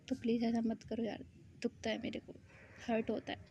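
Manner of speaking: soft, hurt plea to viewers. Real, not acted. Narrator begging viewers not to unsubscribe, softly hurt. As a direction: sound genuinely wounded, almost hushed. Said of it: "दिल दुखता है यार".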